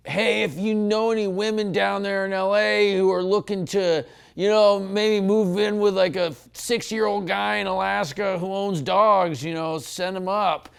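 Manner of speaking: earnest lonely bachelor pitch; mock Alaskan musher asking for a wife; folksy musher. Musher's Facebook message voiced.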